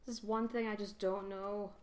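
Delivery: a faint, bad Scottish accent, barely there; lightly voiced Scottish dwarf, clumsy attempt; half-hearted Scottish accent for the know-it-all dwarf; terrible Scottish accent. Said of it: "That's my terrible Scottish accent".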